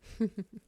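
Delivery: brief, light giggle. Acted. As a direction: chuckle fondly under your breath. Amused by her patient's attitude.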